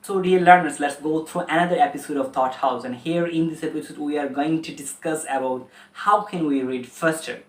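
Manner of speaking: slow, deliberate presenter read; formal English intro. Shown as a demonstration. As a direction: announce the episode slowly and clearly. English channel intro address. (ধীর, স্পষ্ট উপস্থাপনা)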